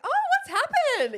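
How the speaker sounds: high, loud oh what's happened; bright-pitched, oblivious question; breezy mock surprise. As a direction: imitate a clueless friend walking in. Voices arriving friend, unaware.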